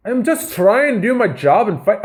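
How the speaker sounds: hammed-up Lucky Charms Irish accent; bad Irish accent. Shown as a demonstration. Podcaster attempting to read a fighter's post, bad Irish accent. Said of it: "Lucky Charms Irish accent".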